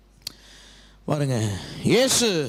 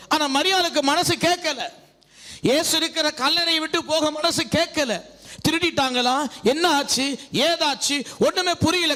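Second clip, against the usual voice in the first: raised, projected sermon voice; preaching; 7 semitones higher than usual. Acted. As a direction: declaim the Bible story to a congregation. Preaches and reads scripture aloud. (பிரசங்க நடையில் உரத்த வாசிப்பு)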